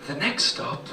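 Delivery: soft, slow, seductive announcer voice; tube announcer voice. Retold or imitated. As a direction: purr the announcement like the tube lady. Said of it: "she'll go".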